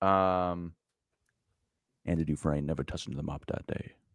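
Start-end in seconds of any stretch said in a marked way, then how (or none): 2.0-3.9 breathy, near-whispered, half-whispered voice. Answering a request for an impression: Morgan Freeman impression. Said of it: "can you actually do a Morgan Freeman impression".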